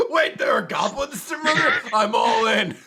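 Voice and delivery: high, loud sudden enthusiasm; playful imitation of a goblin-obsessed hero; mock eager shout. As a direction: perk right up at the word goblins. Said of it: "It's like".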